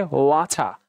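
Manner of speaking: "ওয়াটা" with an aspirated t; British water with a clear t; British accent. Shown as a demonstration. Teacher comparing accents, British "ওয়াটা". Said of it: "British অ্যাকসেন্টে হয়েছে".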